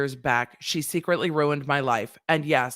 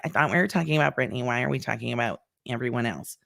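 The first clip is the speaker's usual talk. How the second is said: whiny viewer; 5 semitones lower, 3 dB quieter, faster than usual. Retold or imitated. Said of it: "Somebody in the chat comments is gonna be like".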